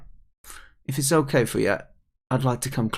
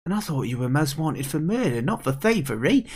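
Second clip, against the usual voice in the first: put-on higher kid voice, mildly indignant; indignant young character; 4 semitones higher than usual. Kid accusing the pike of thievery, mildly indignant. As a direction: accuse the thief in a raised character voice.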